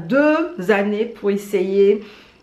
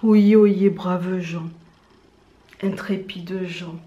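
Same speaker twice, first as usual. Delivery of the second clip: town crier; much slower than usual. Acted. Town crier call again.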